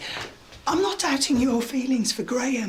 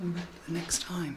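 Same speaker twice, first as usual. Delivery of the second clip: low, very soft whisper. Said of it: "What were you whispering about?".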